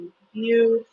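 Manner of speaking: slow, near-whispered anticipation; hushed excitement. Real, not acted. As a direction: let it sink to a soft, low whisper. Hushed anticipation of tonight's guests.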